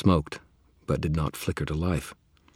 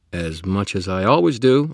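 loud indignant protest; 4 semitones higher, 10 dB louder than usual. Acted. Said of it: "I protested".

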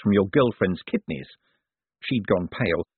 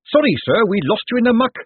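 much higher, eager officer's voice; earnest watch captain; 12 semitones higher, 5 dB louder than usual. A narrator's reading. Carrot apologises to Moist in the fog, earnest. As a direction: pipe up, apologetic and dutiful.

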